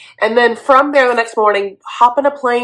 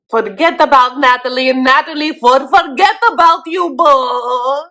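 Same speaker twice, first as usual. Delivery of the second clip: higher, louder theatrical brush-off; mock Natalie; 5 semitones higher, 4 dB louder than usual. Host as Natalie dumping Bo, high and dramatic. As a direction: wave him off like a soap diva.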